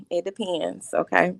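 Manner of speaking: a breezy, sassy "it depends" with a pretend hair tuck; tossing off "it depends" like flipping hair behind the ear; sassy hair flip. Mocking a sassy rival with a pretend hair tuck, breezy and sassy. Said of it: "as I put my invisible hair behind my ear".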